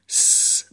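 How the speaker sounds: a voiceless hissing s; voiceless S sound; unvoiced s hiss. Shown as a demonstration. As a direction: hiss a plain S with no voice.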